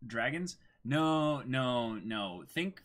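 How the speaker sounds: usual speaking voice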